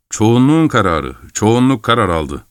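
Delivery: ordinary delivery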